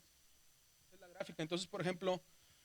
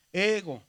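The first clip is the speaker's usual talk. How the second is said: EGO con la E alta y marcada, GO más bajo; acento en la primera vocal; 5 dB louder than usual. Shown as a demonstration. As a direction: sube la E de "Ego" y deja caer el final. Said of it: "hay que subir el anterior". ("Ego" con la primera vocal alargada y acentuada)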